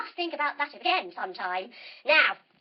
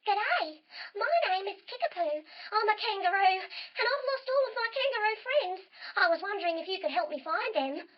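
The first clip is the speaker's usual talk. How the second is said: high, chirpy kangaroo voice; small high character voice; little kangaroo; 7 semitones higher than usual. Acted. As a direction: pipe up as a small lost kangaroo. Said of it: "She says".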